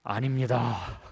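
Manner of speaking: low, drawn-out refusal as the apostle; Peter refusing. Acted. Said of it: "베드로는 뭐라고 그래요".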